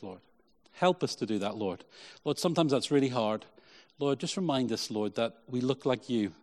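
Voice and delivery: earnest congregational prayer, Lord after each phrase; pastor's sincere prayer voice; closing prayer. Acted. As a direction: pray over the church, steady and sincere.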